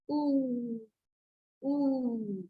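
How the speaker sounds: "Ooh" drawn out long and soft; long oo sound. Shown as a demonstration. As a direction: stretch "Ooh" with rounded lips. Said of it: "this is the long sound".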